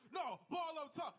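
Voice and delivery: high, slow, shouted; shouted foul call. Retold or imitated. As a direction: yell it across the court, drawn out. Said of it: "someone said".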